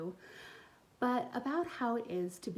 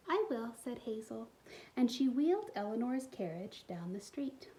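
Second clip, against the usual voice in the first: put-on expressive read-aloud for young kids; storybook reading; 3 semitones higher than usual. A narrator's reading. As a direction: tell the story warmly to little listeners. Reads picture book aloud.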